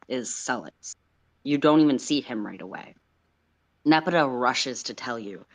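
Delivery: steady recap narration; story narration. Acted. Game master recapping the captain's day, narrating. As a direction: set the scene evenly.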